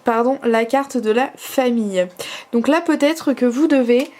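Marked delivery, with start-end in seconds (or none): 2.5-4.1 hiccuping mid-sentence; talking through hiccups. Real, not acted. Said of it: "pardon, j'ai le hoquet".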